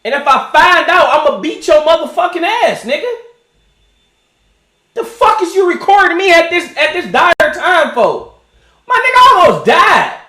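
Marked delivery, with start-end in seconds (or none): 4.9-10.2 indignant rant. Retold or imitated. Ranting at imagined recorder.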